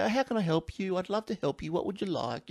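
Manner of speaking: politely offering help, gently acted; nice assistant. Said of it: "all the nice stuff".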